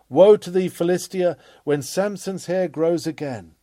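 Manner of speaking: loud ringing pulpit denunciation; prophetic woe cry. Acted. Preacher warns Philistia from the pulpit, loud prophetic cry.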